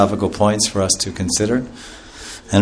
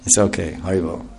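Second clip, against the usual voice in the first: soft, lower, settling the crowd; calming; 3 semitones lower, 5 dB quieter than usual. Acted. Lord Chaitanya calming the huge crowd, soft and reassuring. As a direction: hush the crowd gently. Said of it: "Lord Chaitanya came outside and said".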